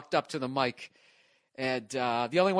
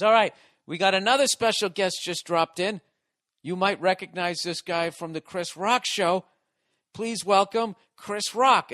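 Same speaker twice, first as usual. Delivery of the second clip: higher, louder hyped intro; emcee announcing; 5 semitones higher, 3 dB louder than usual. Retold or imitated. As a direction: announce the big guest to the room. Host introducing surprise guest.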